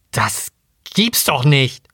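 slow growled curse. Acted. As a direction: grumble it slowly through the teeth. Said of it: "knurrte er".

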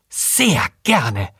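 curt, spitting reply; snarled. A narrator's reading. Waitress answering demand for the restaurant manager, snarling. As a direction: throw the polite words back with venom. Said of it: "fauchte Sophie".

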